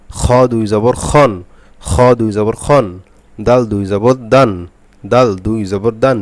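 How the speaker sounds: slow, steady chanting of each tanween syllable; repeated spelling drill. Shown as a demonstration. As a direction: drill each letter over and over for students. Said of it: "একটানায় বানান করে পড়বেন". (ধীরে ধীরে বারবার বানান করে পড়া)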